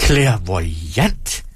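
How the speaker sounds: drawn-out word with a rising end; incredulous echo. Acted. Performer seizes on her claim, incredulous. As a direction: stretch CLAIRVOYANT into delighted disbelief.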